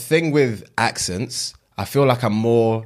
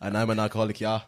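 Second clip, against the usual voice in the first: mock German with a tagged-on ja; German accent; 6 dB quieter than usual. Finishing the alcoholic introduction dare, mock German accent. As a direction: badly fake a German speaker. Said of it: "Same thing".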